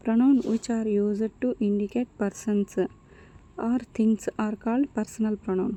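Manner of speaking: very slow, word by word; slow dictation. Shown as a demonstration. Teacher dictating personal pronoun definition, very slow. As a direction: dictate it at writing speed. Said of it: "teacher dictates definition".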